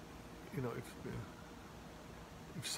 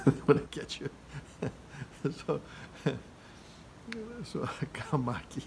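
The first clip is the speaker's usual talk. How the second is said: laughing; 3 semitones higher than usual. Real, not acted. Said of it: "That's a funny word".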